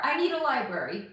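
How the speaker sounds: mildly self-mocking demand, rising at the end; mock entitlement. Streamer mimicking her own demand for a library, mock entitled. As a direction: quote your own diva demand back at yourself.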